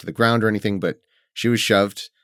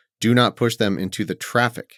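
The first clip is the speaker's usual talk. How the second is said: ordinary delivery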